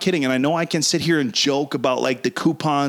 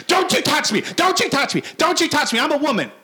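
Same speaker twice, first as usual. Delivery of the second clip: high shrill mock screaming; scared and angry; 11 semitones higher than usual. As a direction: shriek it like a panicked drunk. Mimics drunk woman screaming.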